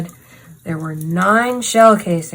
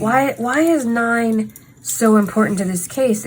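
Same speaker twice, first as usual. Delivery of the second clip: put-on Valley Girl voice; 3 semitones higher than usual. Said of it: "she talks like a Valley Girl slash Claire's manager person".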